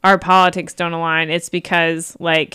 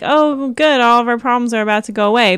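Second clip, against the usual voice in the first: naive optimism; 4 semitones higher, faster than usual. Retold or imitated. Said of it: "some people do, like, think".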